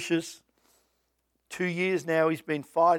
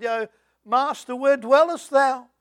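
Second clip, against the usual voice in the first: playful high olde-English address; mock archaic greeting; 4 semitones higher, 7 dB louder than usual. Preacher texting his sick missionary friend, playful mock archaic. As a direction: ham up a jokey thee-and-thou. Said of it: "I said".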